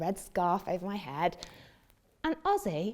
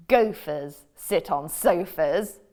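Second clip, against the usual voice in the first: bossy cat; 3 semitones lower, 6 dB louder, slower than usual. Acted. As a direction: lecture the frog slowly. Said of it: "said the cat".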